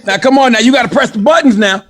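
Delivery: high, hammed-up country man; comic high-pitched country fussing; country accent. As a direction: scold in a put-on country accent. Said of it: "Why is it always go to a country accent".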